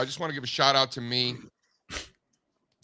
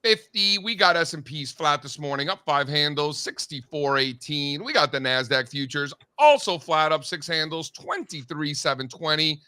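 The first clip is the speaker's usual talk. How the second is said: brisk announcer market rundown; market report read; 2 semitones higher than usual. Acted. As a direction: read the numbers like a morning market anchor.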